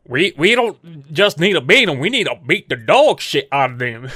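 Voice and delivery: mock-tough ballplayer, lightly imitated; poking fun at a player's tough talk; Aaron Hicks. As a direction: lightly imitate a non-gangster trying to be gangster. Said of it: "it sounded like the most non-gangster guy".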